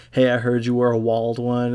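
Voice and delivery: lightly imitated Alabama accent, "walled" for wild; a touch of thick Alabama twang. Retelling his friend's joke on the song, light Alabama accent. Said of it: "the guys from Alabama".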